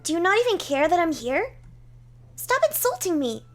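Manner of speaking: high, loud indignant outburst; offended knight. Acted. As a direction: snap at being ignored. Knight feels ignored.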